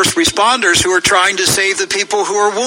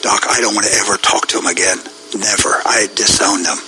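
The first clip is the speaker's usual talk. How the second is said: low-pitched, grave disowning; real, weary rebuke; solemn renunciation; 7 semitones lower than usual. Real, not acted. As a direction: drop the pitch low and renounce them with finality. Solemnly renounces fellow evangelical leaders.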